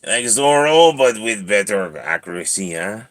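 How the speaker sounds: put-on boastful French-accented cat; French-accented swagger. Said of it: "I don't know why he went French".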